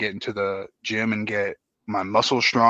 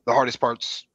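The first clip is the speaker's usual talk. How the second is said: hiccups. Real, not acted. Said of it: "excuse me, I got the hiccups".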